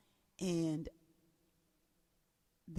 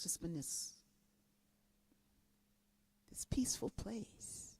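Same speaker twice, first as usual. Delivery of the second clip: soft whispered phrase; 7 dB quieter than usual. Real, not acted. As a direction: let the words fall to a whisper. Describing the peaceful inner place.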